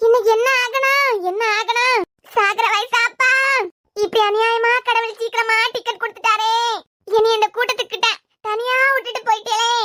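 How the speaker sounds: hammed-up funeral dirge; keen for the dead, unconvincingly; mock wailing lament. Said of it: "இப்ப செல்வம் அழுதா சிரிக்குதா". (நாடகத்தனமான ஒப்பாரி)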